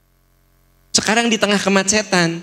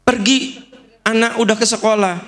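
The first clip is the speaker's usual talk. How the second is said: higher-pitched wife's complaint; nagging wife; 5 semitones higher than usual. Acted. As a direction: plead like a wife criticizing her husband. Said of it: "Itu misalnya saya istri Anda".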